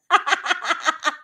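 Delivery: bursting, high laugh; real burst of laughter. Real, not acted. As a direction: break up laughing. Laughs at viewer's guess.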